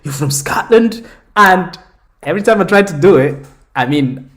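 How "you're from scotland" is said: high-rising mock American amazement; American accent impression, rising into the question; imitated excited American. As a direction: imitate a wowed American, pitch jumping up. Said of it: "every American wanted to speak to us".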